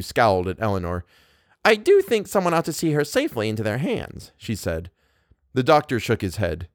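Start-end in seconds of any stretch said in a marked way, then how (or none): 1.6-4.3 high, haughty insistence; imperious. A narrator's reading. Wife insisting the guest be escorted, imperious. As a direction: insist as if nobody could disagree.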